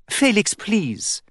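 high, slow, tearful plea; weak crying plea. A narrator's reading. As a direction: plead weakly through tears. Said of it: "the princess cried weakly".

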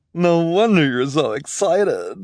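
gushing, high and loud fashion devotee; Esme. Acted. Esme raving to orphans about pinstripes, gushing.

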